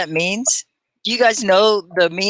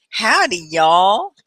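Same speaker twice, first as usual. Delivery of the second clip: cowboy y'all; 3 dB louder, much slower than usual. Pretend. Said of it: "we're cowboys in Texas".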